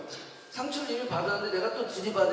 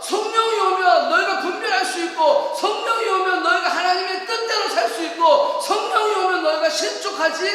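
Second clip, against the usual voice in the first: loud, raised, rhythmic proclamation; full-force preaching; 7 semitones higher, 8 dB louder than usual. Real, not acted. Pastor promising the Spirit's coming to believers, full-force preaching. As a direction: hammer each repeated promise home.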